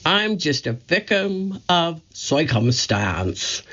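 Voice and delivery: Curly's excuse. Acted. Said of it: "he said when he wasn't".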